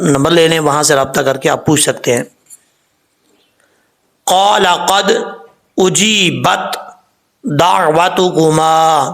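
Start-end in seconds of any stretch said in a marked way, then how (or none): 4.2-9.0 slow, drawn-out tajweed recitation; Quran recitation. Shown as a demonstration. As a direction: recite each word slowly with care. Teacher recites the verse. (آہستہ تجوید کے ساتھ تلاوت)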